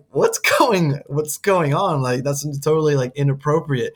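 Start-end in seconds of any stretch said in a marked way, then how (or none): 0.1-2.0 baffled viewer. Retold or imitated. Viewer reacting to the massage scene, baffled. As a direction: ask it in disbelief. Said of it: "you're just like".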